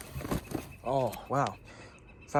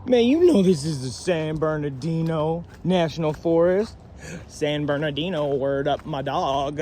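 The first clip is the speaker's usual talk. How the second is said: louder, slow, drawn-out San Bernardino; hyped; 2 semitones higher, 5 dB louder than usual. Real, not acted. To camera, pumped about the forest, loud and slow. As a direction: savor the name like a hype man.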